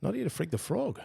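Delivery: repeating the fresh phrase with surprise; amused repeat. Real, not acted. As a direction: savour the new phrase. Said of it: "That's a fresh one for me".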